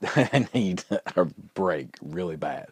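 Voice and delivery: slow words broken up by chuckles; laughing admission. Real, not acted. Dad admits needing to get out, laughing. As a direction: chuckle through the confession.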